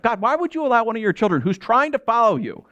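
retold angry prayer. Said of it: "just furious at God".

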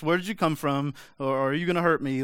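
half-mock insistent demand. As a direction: get straight to the point, loudly. Demanding answers from angel.

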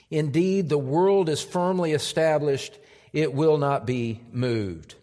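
measured, reverent Bible reading; scripture reading. Acted. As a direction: read the verses with weight. Reads scripture aloud.

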